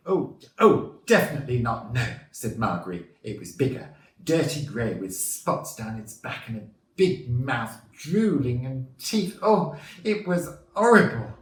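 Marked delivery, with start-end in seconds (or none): 0.1-2.1 high, loud middle-aged lady; worried witness. A narrator's reading. Marjorie insists to reporter it was no fox, as a worried lady. 3.2-11.3 middle-aged lady building to a high, loud finish; horrified witness. A narrator's reading. Marjorie describes the drooling beast to reporter, as a horrified lady.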